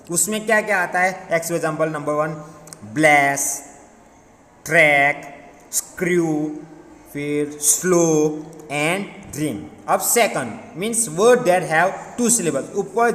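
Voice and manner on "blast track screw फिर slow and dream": "blast, track, screw", single separated beats; one syllable each. Shown as a demonstration. Teacher dictating one-syllable words, each said in one go. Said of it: "word with one syllable".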